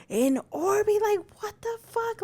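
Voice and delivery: high-pitched incredulous retold reaction; shocked disbelief. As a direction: act out a stunned mom. Mother reacting in shock to news.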